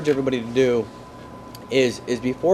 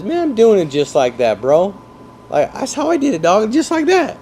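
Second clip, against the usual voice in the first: imitating a cocky agent, much higher on the last lines; mock cocky agent; 6 semitones higher than usual. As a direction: play the bragging agent who thinks he nailed it. Mocking agent's boastful claim.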